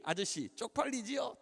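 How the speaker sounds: slow needling question with a rise; glaring boy's taunt. Retold or imitated. Fifth-grade boy to the pastor, drawn-out taunt. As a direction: imitate a kid needling an adult. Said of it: "딱 째려보면서".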